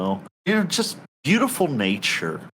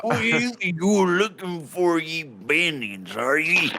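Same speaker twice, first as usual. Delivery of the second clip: put-on thick rustic accent with stretched vowels; accented local; 4 semitones higher than usual. Local asks a traveller about bandits, rustic accent. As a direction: play a folksy old-country local. Voices a non-player character.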